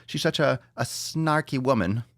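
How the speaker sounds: high, gushing fan voice; mocking gushing fan. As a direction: gush over her like a fan. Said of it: "That's what everyone says".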